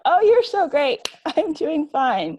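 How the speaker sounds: a sugary falsetto brush-off, drawn out; mock cheery reply. Answering a gushing acquaintance in a high, slow, fake-sweet voice. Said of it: "And I gotta go".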